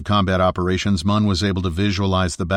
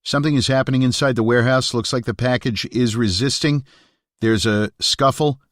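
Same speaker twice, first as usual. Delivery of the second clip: urgent, higher, tight report; tense voice; 5 semitones higher than usual. Acted. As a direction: sound tense and pressed. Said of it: "his voice tense".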